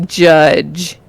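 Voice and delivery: "judge" drawn out slowly; slow, careful "judge"; judge sounded out. Shown as a demonstration. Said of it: "how does this word sound?".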